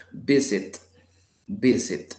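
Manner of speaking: visit stressed on VI, falling; stress on first syllable. Shown as a demonstration. Teacher letting learners hear the accent, first-syllable stress. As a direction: hit VI, let sit drop. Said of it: "yo se lo escucho al inicio".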